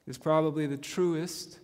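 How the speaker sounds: ordinary delivery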